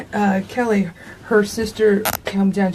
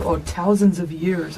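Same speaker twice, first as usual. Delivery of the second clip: attempted Irish accent; 3 semitones lower, slower than usual. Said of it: "I was trying to do Irish".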